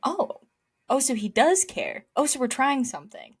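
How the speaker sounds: high, delighted realization; pleasantly surprised. Retold or imitated. Recalling her thought as Lando attacked from pole, surprised. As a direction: gasp it out with rising delight. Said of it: "my first thought was".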